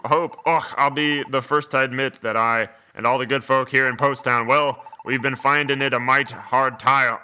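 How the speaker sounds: put-on a light Scottish brogue for the old dog; reading the line in a mild Scottish accent; easygoing Scottish accent, lightly done. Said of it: "he kinda seems like he'd be Scottish".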